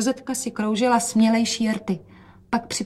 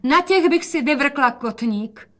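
calling out; 6 semitones higher than usual. Acted. Mother calls out about the glass-heeled shoes. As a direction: call it out with mock alarm. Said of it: "a volala".

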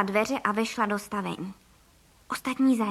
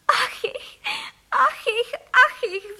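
high, wailing sobbed lament; a shrunken wife wailing at her wings; sobbing; 12 semitones higher, 4 dB louder, much slower than usual. A narrator's reading. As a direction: whimper it high like a tiny bird in distress. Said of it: "vzlikala paní Frejková".

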